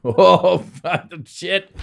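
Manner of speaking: tense exclamation. Retold or imitated. Pulling out just above water.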